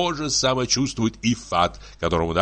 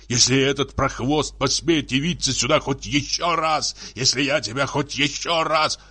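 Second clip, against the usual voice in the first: heated, higher-pitched tirade; angry threats; 4 semitones higher than usual. Acted. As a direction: threaten her as a jealous husband. Husband threatens wife in acted quarrel.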